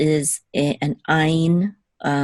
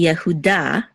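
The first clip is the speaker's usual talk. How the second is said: "Yehuda" stressed on its final da; accent on da. Shown as a demonstration. Teacher giving the name by itself, accent on da. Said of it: "with the accent on da".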